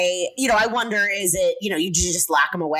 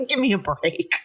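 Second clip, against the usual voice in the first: laughing disbelief. Real, not acted. Laughing repeat of scornful remark.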